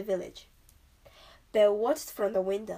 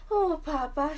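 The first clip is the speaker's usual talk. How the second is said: exclaimed; 6 semitones higher, 4 dB louder than usual. A narrator's reading. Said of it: "she exclaimed".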